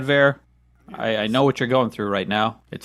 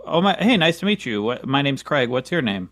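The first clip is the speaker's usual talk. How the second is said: partygoer greeting; 3 semitones higher than usual. Retold or imitated. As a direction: play a guest introducing himself. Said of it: "this is what it'll actually be".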